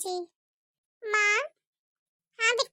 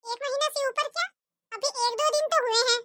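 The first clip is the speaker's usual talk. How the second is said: impatient stingy saas, a bit higher; scolding mother-in-law; 4 semitones higher than usual. Acted. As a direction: nag the daughter-in-law to hurry. Mother-in-law disputes bride. (बहू को डांटती कंजूस सास)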